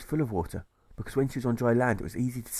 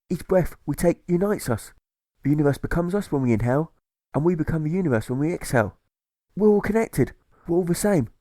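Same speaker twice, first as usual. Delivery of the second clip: higher and louder, building to a joyous peak; Dog's rapturous revelation; 5 semitones higher, 5 dB louder than usual. A narrator's reading. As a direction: swell with wonder as it all clicks.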